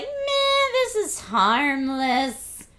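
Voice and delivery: mock gushing young teen girl. Streamer mimics her teen chat-room self, mock gushing. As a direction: lightly play your own lovestruck fourteen-year-old self. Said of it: "we were all like".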